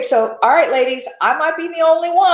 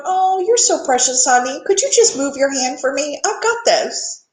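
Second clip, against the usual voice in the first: tender God voice. Retold or imitated. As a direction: humor her kindly, like a parent. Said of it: "I just picture him going".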